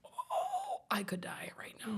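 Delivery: faint, wailing high "oh" into a weak croak; mock dying. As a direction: play feebly at dying, softly. Imagined dramatic reaction to drink.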